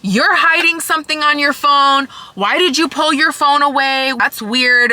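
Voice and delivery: imitated angry accusation. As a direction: act out a suspicious ex demanding answers. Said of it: "flipped out".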